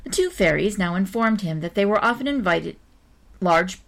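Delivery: measured, expressive storybook reading; story narration. A narrator's reading. Reader telling an old-fashioned tale to listeners, story narration. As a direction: read it out like a children's tale. Reads a children's story aloud.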